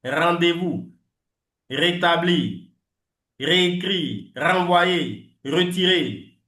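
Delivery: "Rendez-vous", "rétablir", "retirer" with the French uvular R; throaty French R on each word. Shown as a demonstration. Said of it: "je dis toujours R". (les mots avec le R français)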